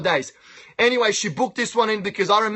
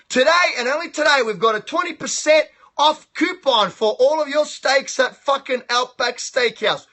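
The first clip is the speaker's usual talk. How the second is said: fast, higher hammed-up ad read; mock commercial; 3 semitones higher than usual. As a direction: rattle off the deal like a TV ad.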